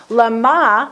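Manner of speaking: "lama" as lə-MA, stress on the last syllable; "lama" accented on the end; lama with final stress. Shown as a demonstration. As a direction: put the weight on MA in "lama". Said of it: "that's what the trup is".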